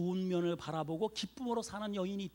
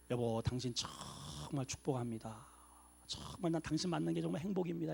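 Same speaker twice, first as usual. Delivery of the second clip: tender blessing; 6 dB quieter than usual. Shown as a demonstration. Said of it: "이렇게 좀 건성으로 얘기하지 말고".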